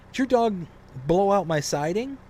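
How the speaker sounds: high, loud accusing neighbor voice; mock angry neighbor. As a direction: imitate the neighbor's indignant accusation. Angry neighbor confronting about siding.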